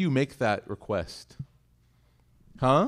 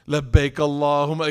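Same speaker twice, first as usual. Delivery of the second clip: eager call; 6 dB louder than usual. Pretend. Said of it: "You walk in, you're like".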